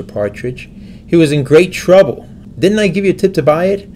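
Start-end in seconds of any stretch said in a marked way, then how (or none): 2.6-3.9 indignant. Acted. Elmer argues with old Turkey.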